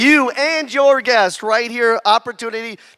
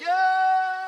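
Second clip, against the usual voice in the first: big yeah; 8 semitones higher, 6 dB quieter than usual. Shown as a demonstration. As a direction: shout it out when a hand goes up. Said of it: "I want you to give a big".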